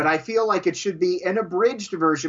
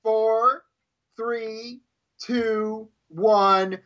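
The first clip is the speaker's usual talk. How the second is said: measured count with a pause between numbers; countdown; much slower than usual. Pretend. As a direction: count down slowly to the start. Counting down a timed challenge.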